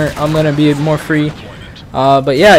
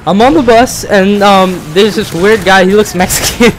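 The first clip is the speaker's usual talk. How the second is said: imitating mom; 5 semitones higher than usual. Son imitating his mom describing the stranger, pitched up. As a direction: tell it like a flustered mother. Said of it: "She's like".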